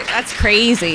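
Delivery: laughing, then amused; relieved laughter. Real, not acted. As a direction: giggle with relief. Laughing at the milestone.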